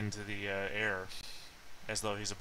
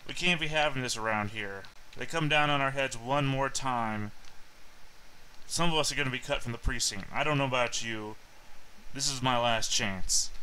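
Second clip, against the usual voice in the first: lightly voiced officer; 3 semitones higher than usual. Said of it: "female voice from behind you".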